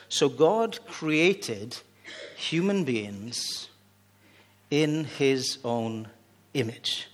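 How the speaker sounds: slow solemn Bible reading; scripture reading. Real, not acted. Preacher reads Genesis to the congregation, slow and solemn. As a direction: read each word slowly and weightily. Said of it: "this is what it says".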